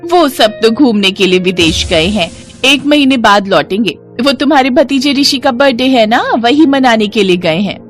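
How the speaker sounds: lightly voiced, lively neighbour; chatty neighbour aunty. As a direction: pass on news like a chatty aunty. Neighbour explains in story. (बातूनी पड़ोसन aunty की आवाज़)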